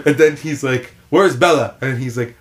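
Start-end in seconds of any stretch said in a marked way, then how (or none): 1.1-1.7 lightly acted desperate question; mildly hammed-up movie plea; retold dramatic demand. Retelling the prison visit, mildly dramatic. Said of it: "It's extremely dramatic".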